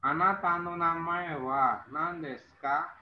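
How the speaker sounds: slow, careful formal Japanese question; slow careful demo. Shown as a demonstration. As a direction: spell out the polite question slowly. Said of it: "Contohnya di sini".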